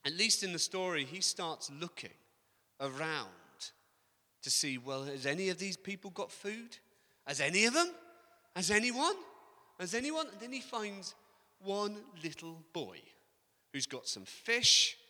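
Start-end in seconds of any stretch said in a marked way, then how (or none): 4.8-10.3 searching more and more anxiously; calling round the crowd, rising each time; rising urgent asking. Retold or imitated.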